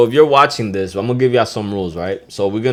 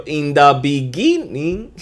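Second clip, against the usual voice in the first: put-on slow, higher echo of an old video intro; mock intro; 5 semitones higher, slower than usual. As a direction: callback to an old intro line. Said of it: "y'all seen that video?".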